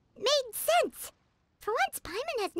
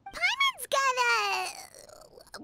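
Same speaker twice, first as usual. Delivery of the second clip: hesitant whisper; 4 semitones higher, much slower than usual. Acted.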